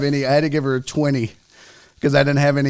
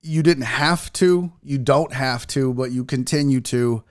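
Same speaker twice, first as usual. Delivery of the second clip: slow, sincere gratitude; earnest, unhurried thank you; heartfelt thanks; slower than usual. Real, not acted. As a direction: take your time and mean every word. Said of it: "from the absolute bottom of my heart".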